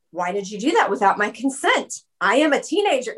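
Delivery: mock teenage indignation; protesting teenager, lightly hammed up; indignant teenager. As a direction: play up the affronted teen. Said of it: "I was actually angry at my mom".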